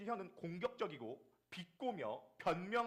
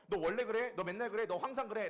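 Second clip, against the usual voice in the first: loud, higher mock accusation; accusing spouse; 4 semitones higher, 7 dB louder than usual. Spouse accusing partner with "always", loud and sharp. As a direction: throw the blame at them.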